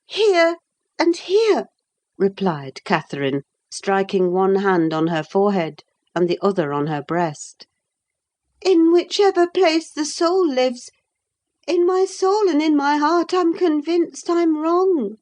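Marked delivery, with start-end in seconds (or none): 0.1-1.7 put-on lightly raised young woman's voice; young Catherine. A narrator's reading. 8.6-15.2 put-on lightly raised young woman's voice; young Catherine. A narrator's reading.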